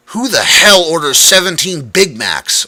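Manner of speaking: overworked cook grumbling at a huge order; grumbled. A narrator's reading. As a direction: gripe about the order. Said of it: "I grumbled".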